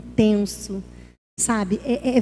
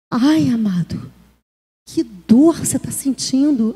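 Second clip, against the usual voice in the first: slow, tender, drawn-out sympathy; compassionate concern; slower than usual. Acted. Pastor listening to someone in pain, compassionate concern. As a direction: gently invite them to share the hurt.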